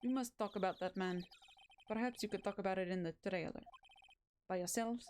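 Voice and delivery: put-on mixed Russian and Persian accent, even delivery; Russian-Persian hybrid accent. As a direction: play it as a love child of Russian and Persian accents. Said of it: "Russian and Persian love child accent".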